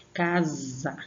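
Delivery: casa drawn out on its syllables; sílaba forte. Shown as a demonstration. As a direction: stretch casa to show the stress. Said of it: "Você sente puxar mais". (casa alongada, mostrando a força)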